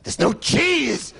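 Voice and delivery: slow, high, loud mock wail; late-night shopper. Comic mocking a midnight shopper, slow high wail. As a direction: stretch it out like a desperate 3am shopper.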